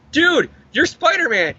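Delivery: high, slow mock awe; hammed-up fanboy astonishment; starstruck amazement. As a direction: stretch it out like a thrilled fan. Starstruck cosplayers recognise the hero.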